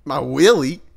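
high, loud echo question; startled disbelief; incredulous. Real, not acted. Reacting to the tire pump explanation, incredulous.

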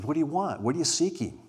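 a gentle, welcoming "What do you want?" asked as an open invitation; invitational. Shown as a demonstration. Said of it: "A little bit more invitational".

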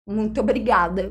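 "Muito obrigada" said through a mouthful; thanks mumbled round food; laughing with mouth full. Real, not acted. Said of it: "Com a boca cheia".

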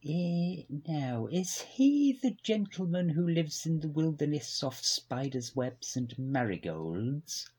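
lightly voiced stuffy posh gent; a hint of a posh old gentleman; posh man. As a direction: play a prim upper-class record boss. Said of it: "Giles is a posh man".

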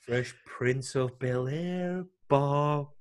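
slow, drawn-out announcer call; announcer mock. Arena commentator mocking the drunk guy's missed shots, drawn out.

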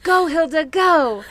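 mock urging. Fan retelling Drell sending Hilda off, mock urgent cheer. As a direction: urge someone on in playful imitation.

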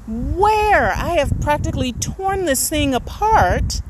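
retold disbelief. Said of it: "And I'm like".

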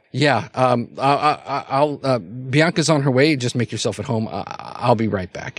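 flustered, stammering false starts; flabbergasted. Acted. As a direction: trip over your words, then excuse yourself.

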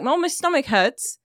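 put-on slow British accent for a mom; lightly put-on British accent, words drawn out. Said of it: "That's pretty good".

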